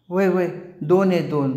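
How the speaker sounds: put-on a small boy spotting them; lightly voiced eager boy. A narrator's reading.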